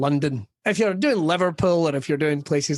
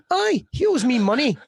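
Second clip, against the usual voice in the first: mock gruff Scot reply; 8 semitones higher than usual. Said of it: "I've always got the same answer".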